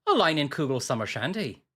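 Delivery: light Irish accent. Shown as a demonstration. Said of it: "say that in an Irish accent".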